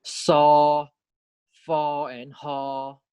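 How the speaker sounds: "so", "fo", "ho" with airy friction, then a long level vowel; fricative demonstration. Shown as a demonstration. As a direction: let air rush through each first consonant. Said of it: "there's turbulent airflow when we pronounce".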